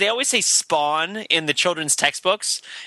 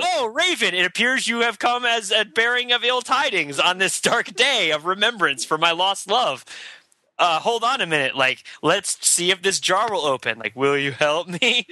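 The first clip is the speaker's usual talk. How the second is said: mock gothic poet; 2 semitones higher than usual. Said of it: "And it's like".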